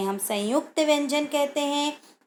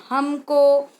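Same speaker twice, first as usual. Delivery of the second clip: हमको said louder with emphasis; stressed correct word; 2 semitones higher, 5 dB louder, much slower than usual. Shown as a demonstration. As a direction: lean hard on हमको. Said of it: "अपन को नहीं".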